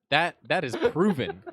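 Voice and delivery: laughing through the words; can barely get it out for laughing. Real, not acted. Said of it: "Why are you laughing so hard".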